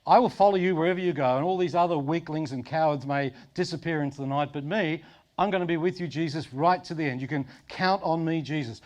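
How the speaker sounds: mildly acted eager vow, launched fast; a touch of bold promise-making; lightly acted pledge. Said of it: "Peter's gone from".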